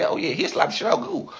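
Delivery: amused half-laugh; laughing agreement. Retold or imitated. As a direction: chuckle through it. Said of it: "you know what I say?".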